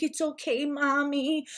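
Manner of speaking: put-on soft, high little-kid voice; comforting child. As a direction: imitate a small child soothing a parent. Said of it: "like, comforting his mom".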